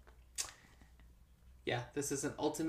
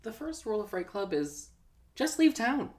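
punchline delivery; 8 semitones higher, 4 dB louder than usual. Pretend. Podcast catchphrase, rising.

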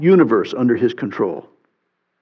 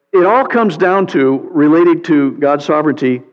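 ordinary talk, nothing marked

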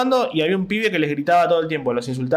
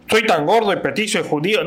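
mock self-pity; 4 semitones higher than usual. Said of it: "no hago humor desde el lado de".

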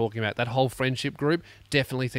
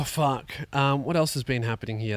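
ordinary talk, nothing marked

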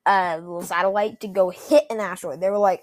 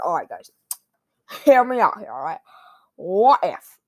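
pitching an idea, loud bursts; new guy trying to prove himself; eager new councillor; 3 semitones lower, 7 dB louder than usual. Acted. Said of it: "the new dude comes in, he gotta prove himself".

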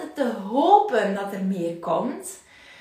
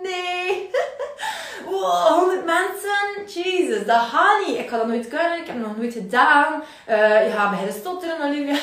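higher, half-laughing nervous voice; hammed-up fear of a big audience; mock panic; 4 semitones higher than usual. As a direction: play your scared self with a laugh. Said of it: "En die zegt".

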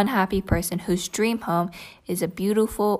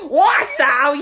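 put-on old British dialect; 5 semitones higher, 5 dB louder than usual. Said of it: "British, but, like, a dialect".

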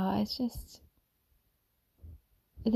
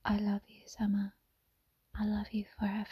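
soft, hushed half-whisper; retold loving whisper; 4 dB quieter than usual. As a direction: murmur tenderly, as if into her ear. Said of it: "I whispered and I said".

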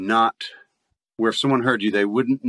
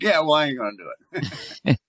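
put-on rural Southern redneck accent, a bit higher and dismissive; 6 semitones higher than usual. Answering the British lady on TikTok in a redneck Southern accent. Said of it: "changed back to a redneck accent".

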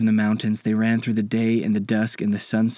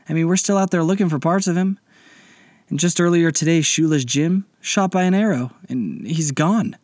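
higher-pitched, aggrieved plea; aggrieved old pirate; 7 semitones higher than usual. Acted. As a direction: lay out the losses, pitch climbing. Old pirate confronts captain over losses.

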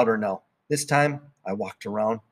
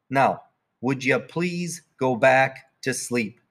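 tired dad pleading; slower than usual. Acted. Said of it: "Daddy said".

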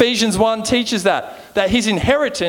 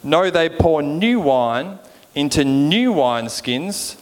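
measured, lower-pitched Bible reading; scripture reading; 4 semitones lower than usual. Acted. Preacher reading the parable to the congregation, measured scripture reading. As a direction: read the verses out deliberately, letting phrases settle.

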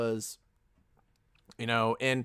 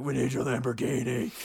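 a hint of a gruff Batman growl; Christian Bale Batman voice. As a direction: lightly do the Batman rasp. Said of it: "like Christian Bale being Batman".

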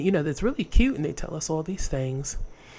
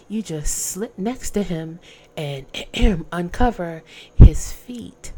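sly mother-in-law; 4 semitones higher, 4 dB louder than usual. Acted. Naomi's sly instructions.

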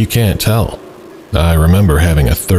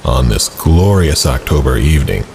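horror host. Acted. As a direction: welcome the ghouls like a creepy TV host. Horror host intro, then story narration.

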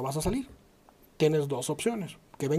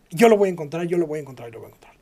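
insistent repetition, loud then dying away; retold determination; 7 dB louder, faster than usual. Wife searching through hospital papers, doggedly insistent. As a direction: start forceful and let each repeat sink to a mumble.

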